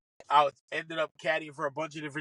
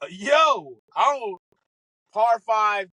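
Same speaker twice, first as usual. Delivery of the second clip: excited yell; 6 semitones higher, 5 dB louder, much slower than usual. Retold or imitated. Nervous caddy on first tee.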